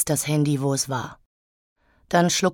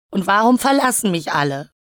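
raised, higher plaintive cry; wailing; 4 semitones higher, 4 dB louder than usual. Acted. Elektra on the floor feeling abandoned, wailing. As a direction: lament being abandoned by everyone. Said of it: "jammerte ich".

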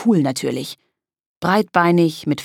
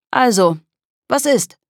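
pushy, rising much higher on the question; impatient; 7 semitones higher, 4 dB louder than usual. Acted. Kolja pushes the girls for an answer, impatiently. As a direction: press them, fed up with waiting. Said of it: "fragte Kolja ungeduldig".

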